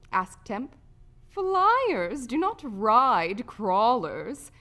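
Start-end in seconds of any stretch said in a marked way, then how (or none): 1.3-4.5 slow, loud, emphatic refusal; haughty, edgy and deliberate. A narrator's reading. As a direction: draw each word out, affronted. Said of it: "said Aurora edgily".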